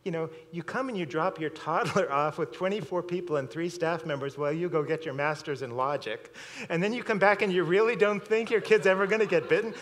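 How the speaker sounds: silently fuming at the careless parents, and it builds; exasperated inner rant. Retold or imitated. Daycare worker's unspoken thoughts to parents, rising exasperation. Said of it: "But inside I'm like".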